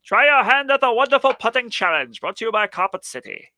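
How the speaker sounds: high-pitched hammed-up barker pitch; carnival barker. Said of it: "trying to sound like a carnival barker".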